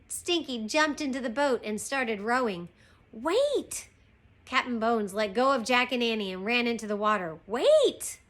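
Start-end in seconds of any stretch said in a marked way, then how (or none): 3.1-3.9 high-pitched drawn cry; raised storybook plea; calling out. Acted. Captain calls after rowboat. 7.5-8.2 loud, high-pitched cry; desperate storybook captain's plea; calling out. Acted. Captain calls after rowboat.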